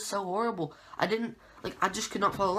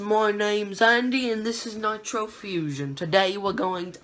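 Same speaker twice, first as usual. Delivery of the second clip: mock British accent; 3 semitones higher than usual. Vlogger opening his Arrow recap, mock British accent. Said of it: "doing the British voice".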